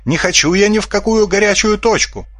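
high, thin squeak of fright; frightened squeak. A narrator's reading. Svinomyas panics about the war, squeaking in fright. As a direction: squeak it out, scared. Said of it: "испуганно пискнул Свиномяс".

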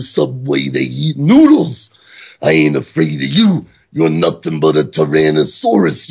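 mock Macho Man promo with big pitch swings; Randy Savage voice. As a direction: rant it like a hammed-up Randy Savage. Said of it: "I read it in the voice of Randy Savage".

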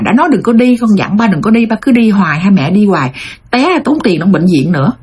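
mild mock nagging at an elderly parent; retold scolding. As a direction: imitate an impatient grown child scolding. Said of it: "nó nạt, nó hối". (giả giọng con cằn nhằn cha mẹ)

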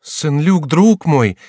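high, loud anxious call to her husband; anxious outcry. Acted. Jeanne grabs her husband, crying out his name. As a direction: cry out clutching at him. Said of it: "вскричала молодая женщина".

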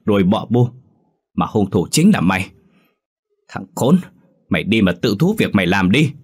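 father slapping his son and scolding him; furious father. Acted. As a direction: berate the son for the killing. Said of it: "tát cho anh vài cái rồi nói".

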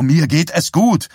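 loud, high, slow angry yell; angry shout. Acted. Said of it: "schrie Johnny". (wütend geschrien, viel höher und lauter)

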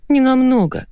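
high, whiny plea; whining. Acted. Wife nagging husband to meet elsewhere, high whine. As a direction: wheedle like a spoiled child. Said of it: "законючила Ливанова".

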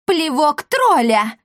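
high, slow, loud spell cry; shouted spell. A narrator's reading. Young girl fires a spell, shouting. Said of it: "крикнула юная исселитка".

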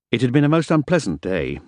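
plain reading voice

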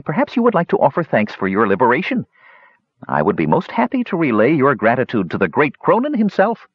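expansive kender. Acted. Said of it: "continued Talaran expansively".

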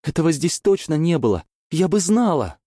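high, loud horrified yell; horrified shout. Acted. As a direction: scream it in horror. Elsie shouting in horror.

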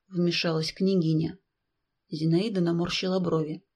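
ordinary delivery

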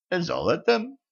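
high rising surprised question. A narrator's reading. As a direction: perk up, suddenly interested. Witch perks up at gold.

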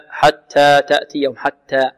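حتى تأتيهم with a moderate puff on each T; correctly breathed T. Shown as a demonstration. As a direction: release the T lightly, neither hard nor hissed. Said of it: "لابد من همس التاء".

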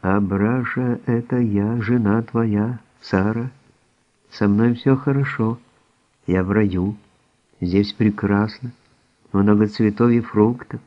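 lightly spooky medium's voice; a hint of a spirit speaking; otherworldly voice. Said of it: "произнесла потусторонним голосом".

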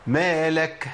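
"مالك" ending in a puff of h after the k; wrong "مالك" with an audible h at the end; h-like release. Shown as a demonstration. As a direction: let the final kaf of "مالك" trail into a breathy ha. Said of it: "همس من مخرج الهاء".

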